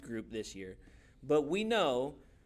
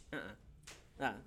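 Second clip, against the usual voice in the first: firm refusal; 4 semitones lower, 10 dB quieter, slower than usual. Shown as a demonstration. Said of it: "reach out your hand and just say".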